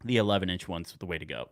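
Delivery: talking through hiccups; hiccuping between words. Real, not acted. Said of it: "Sorry, I have the hiccups".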